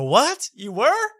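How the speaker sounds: high, loud disbelieving yelp; mock surprise. Host retells his reply to a fan who saw it first, mock shock. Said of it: "I go".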